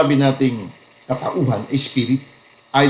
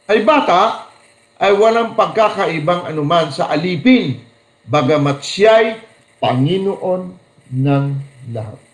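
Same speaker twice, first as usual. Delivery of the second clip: raised, proclaiming Bible reading; scripture reading; 3 semitones higher than usual. Acted. Preacher reading Galatians to the congregation, proclaiming. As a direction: proclaim the verse to the church. Reads Bible verse aloud.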